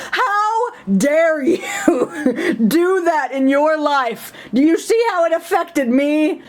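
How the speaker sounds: hammed-up tearful complaint; mock sobbing. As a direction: whimper like a wounded diva.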